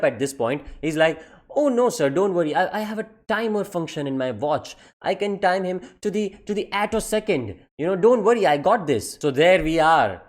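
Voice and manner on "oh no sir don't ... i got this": a touch higher, eager helper; lightly voiced jock sucking up. Jock offering to time the student, eager.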